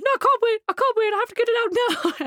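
put-on high, whining child's voice; little brother whining to mum in the car; whiny little boy. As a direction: plead like a small boy in pain. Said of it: "he went".

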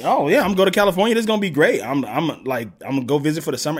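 put-on a child bragging about a California summer; excited kid. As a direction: rattle it off like a thrilled seven-year-old.

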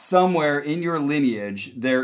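psychic hotline. Acted. Psychic reading for the caller.

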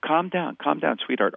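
gently placating parent, sugary and controlled; pseudo-patronizing. Shown as a demonstration. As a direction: soothe a child condescendingly. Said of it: "this kind of pseudo-patronizing way".

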